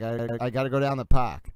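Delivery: put-on light New England accent, "park" with a dropped r; Boston accent. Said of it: "I absolutely will say things like".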